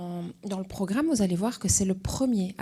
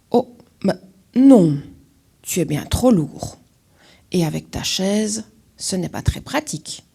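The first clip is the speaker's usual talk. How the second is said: loud exclamatory no, pitched up at first; loud refusal; 7 dB louder than usual. Acted. Birds refusing Alfred, a loud exclamatory no. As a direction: refuse him firmly and loudly.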